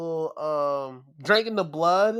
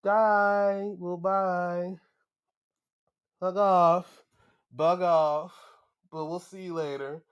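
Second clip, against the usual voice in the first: mocking goodbye; 2 semitones higher, slower than usual. Villain mocking the beaten wrestler as he leaves, gloating. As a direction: wave him off with a sneering ha-ha.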